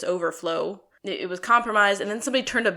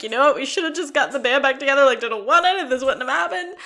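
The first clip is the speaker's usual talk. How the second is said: higher and louder, fast and pressing; emphatic regret; 5 semitones higher, 7 dB louder than usual. Retold or imitated. Bandmates wish they had reunited sooner, higher and louder. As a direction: insist on it, all fired up. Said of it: "We were like".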